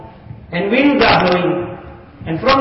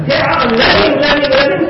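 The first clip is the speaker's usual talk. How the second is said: mock shout; 5 semitones higher than usual. Preacher mocking worldly learners, raised mock shout.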